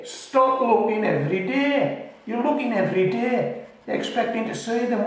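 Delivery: high-pitched teasing telling-off; exasperated scolding. Real, not acted. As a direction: scold them with a laugh. Mock scolding impatient gardener.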